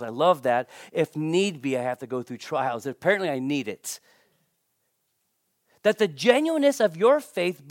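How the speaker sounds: measured, solemn Bible reading; scripture reading. Acted. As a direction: read it as holy words to the congregation. Reads scripture passage aloud.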